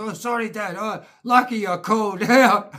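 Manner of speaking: high, laughing mock-innocent sorry; laughing fake apology. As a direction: pretend innocence while cracking up.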